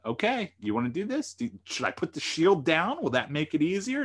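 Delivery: mock the cocky challenger, picking a fight; cocky taunt. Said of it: "feeling like he's pretty cocky, arrogant, he's like".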